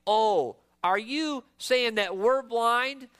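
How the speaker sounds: slow, mock-incredulous question; sarcastic. Pharisees answering Jesus when told they are blind, sarcastic. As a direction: lay on some sarcasm, drawing it out. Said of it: "in a very sarcastic way".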